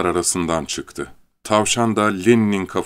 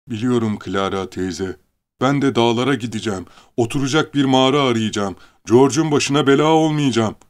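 half moaning; 4 semitones higher than usual. Acted. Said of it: "adeta inleyerek".

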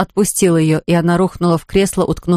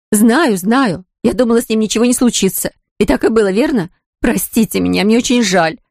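tearful pleading; 3 semitones higher than usual. Acted. Sister begging forgiveness.

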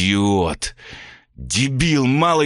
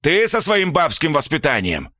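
furious father; 8 semitones higher than usual. A narrator's reading. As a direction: rage at the boy, then turn on the mother. Father raging at son.

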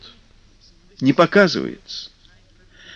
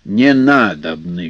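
gruff voice; 4 dB louder, slower than usual. Acted. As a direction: snap back rudely like an old river spirit. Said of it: "грубым голосом ответил Водяной".

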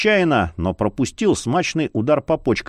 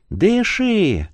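из колодца; 8 semitones higher than usual. A narrator's reading. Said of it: "будто кричали из колодца".

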